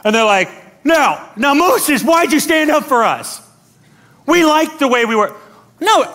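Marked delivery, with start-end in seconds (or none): 0.8-5.3 raised, protesting whine; mock complaining. Israelites griping at Moses, mock complaining. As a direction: object like a put-out crowd.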